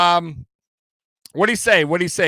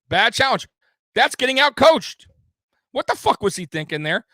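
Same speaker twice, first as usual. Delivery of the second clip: higher and louder, fed up with the coaching; exasperated rant; 6 semitones higher, 4 dB louder than usual. Real, not acted. Fan on stream fuming at the coaching call, loud and exasperated. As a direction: bark it out in disbelief at the coach.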